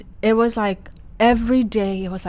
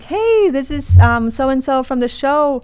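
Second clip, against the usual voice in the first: high, bright hey this is; chirpy show caller; 5 semitones higher, 5 dB louder than usual. Retold or imitated. Producer calling her back to the show, bright and high. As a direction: play the upbeat producer on the phone. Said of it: "They're like".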